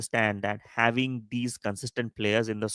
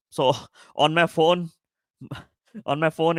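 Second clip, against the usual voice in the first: laughing; 5 semitones higher than usual. Real, not acted. Laughing while listing his screens.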